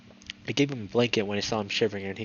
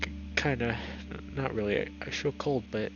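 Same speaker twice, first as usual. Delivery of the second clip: soft shaky stammer from the cold; shivering stammer; 4 dB quieter than usual. Acted. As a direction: stutter through shivers. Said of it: "still trembling".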